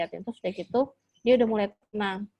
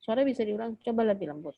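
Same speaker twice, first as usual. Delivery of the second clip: gentle voice; faster than usual. Shown as a demonstration. Mother modelling how to ask her child, gentle. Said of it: "Ngomongnya kayak gini".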